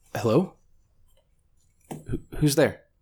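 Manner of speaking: light woman's voice. Game master voicing an unseen woman calling to the wandering players, light female voice. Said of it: "you suddenly hear this sort of light female voice say".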